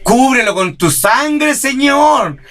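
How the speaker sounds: slow, mock-pious plea rising high; sarcastic churchgoer's prayer; ironic prayer. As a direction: drag it out sarcastically. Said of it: "Así irónicamente".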